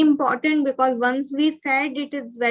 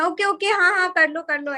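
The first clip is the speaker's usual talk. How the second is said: hurried reply; 5 semitones higher, much faster than usual. Retold or imitated. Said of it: "so my tone changes".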